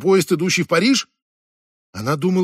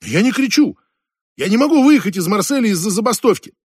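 higher, agitated protest; worked-up, louder self-defence; raised voice; 4 semitones higher, 4 dB louder than usual. Acted. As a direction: protest with voice raised, close to shouting. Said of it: "Только не кричите".

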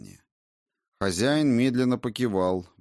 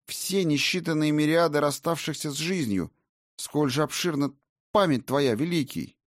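breathless wonder, higher voice; awed young valkyrie; 6 semitones higher than usual. A narrator's reading. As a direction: marvel at his memory. Narrator voices Raina, awed.

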